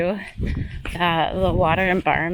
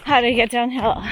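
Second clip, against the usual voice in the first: fast, louder, higher snapping back; imagined angry retort; 5 semitones higher, 5 dB louder, faster than usual. Retold or imitated. Runner imagining snapping back at the photographer, angry. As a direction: tell them off as you wish you had. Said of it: "I wanna be like".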